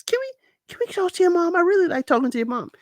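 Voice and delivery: fast, high, eager mimicry of Patrick. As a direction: gush it out like an eager kid.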